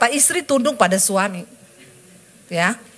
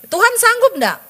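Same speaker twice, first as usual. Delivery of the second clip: rallying call; 9 semitones higher, 3 dB louder than usual. Real, not acted. Challenging the congregation.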